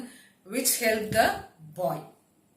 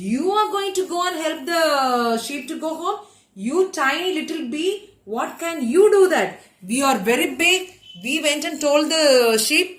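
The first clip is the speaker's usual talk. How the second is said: incredulous, higher-pitched belittling; scornful disbelief; 4 semitones higher, 3 dB louder than usual. Acted. Squirrel, rabbit and fox doubting the bee, scornful disbelief. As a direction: scoff at the little one, voice raised high.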